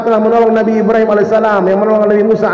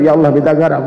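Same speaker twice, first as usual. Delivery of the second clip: prayer raised just enough to overhear; mock prayer, a little more audible; slightly louder prayer; 5 semitones lower than usual. Worker prays so the kitchen helper hears, slightly louder. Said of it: "Kalau kurang kerasnya suara dikit".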